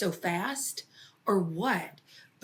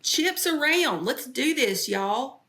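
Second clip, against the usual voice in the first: 1 sassy call; 5 semitones higher, 4 dB louder, slower than usual. Retold or imitated. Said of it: "I was like".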